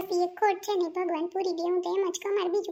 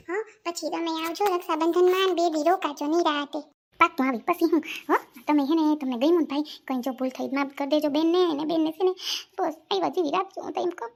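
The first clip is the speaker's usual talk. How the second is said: louder, choked-up pleading goodbye; tearful farewell; 3 dB louder than usual. Acted. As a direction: sister on the edge of tears saying goodbye. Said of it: "રોવે છે કાં બેન?".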